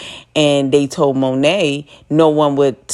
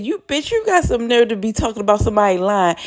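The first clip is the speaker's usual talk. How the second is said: fast, higher scolding; mock furious Monet; 6 semitones higher, faster than usual. Monet lashing out at lying Diana, fast and cutting. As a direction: tear into her, quick and cutting.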